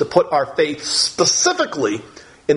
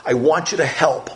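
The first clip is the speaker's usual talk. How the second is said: honest humble plea. Retold or imitated. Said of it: "so honest and so humble to say".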